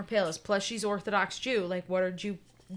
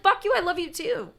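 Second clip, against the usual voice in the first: higher, louder shouted fondness; loving yell; 11 semitones higher, 8 dB louder than usual. Retold or imitated. Girlfriend shouting back her love, loud and fond. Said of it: "she was like".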